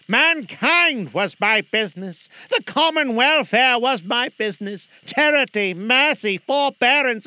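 high, loud anguished spirit voice; lamenting ghost. Acted. Marley's ghost lamenting to Scrooge, anguished. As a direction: mourn each word like a tormented ghost.

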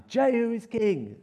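high, drawn-out herald's cry; proclaiming shout. Acted. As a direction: hail a new king to the crowd. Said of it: "blew the trumpet and shouted".

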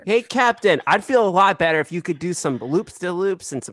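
high, loud excited shout to the captain; excited call. Acted. Player begging the captain for loops, high and loud. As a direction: call up to him all hyped.

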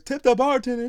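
high, loud announcer shout; mock the club DJ's hype call. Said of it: "You're promoting the bartenders".

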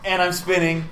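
talking while spinning in a chair; spinning in office chair. Real, not acted. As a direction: voice swirling around the room. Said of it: "my voice is coming from different places around the room as I spin".

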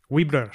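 "Wibbler" pronounced as it is spelled; pronunciation demo. Shown as a demonstration. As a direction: say "Wibbler" as a model, just as written. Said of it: "se pronuncia co-, com-, como se escribe".

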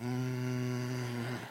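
long, level engine-like hum; imitated acceleration. Driver retelling how he sped up, droning hum. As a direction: hold a steady "mmm" like revving away.

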